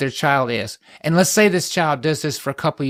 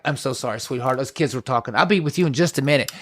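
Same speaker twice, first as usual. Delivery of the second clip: sweet dismissal; faster than usual. Retold or imitated. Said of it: "say something simple like".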